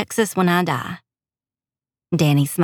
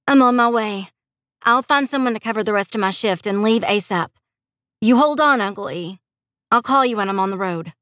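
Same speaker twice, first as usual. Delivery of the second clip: higher-pitched urgent promise to uncle; determined heroine; 4 semitones higher than usual. Acted. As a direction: take charge, starting high and easing down. Heroine takes charge on phone.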